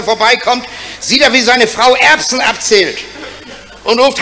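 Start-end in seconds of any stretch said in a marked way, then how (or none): none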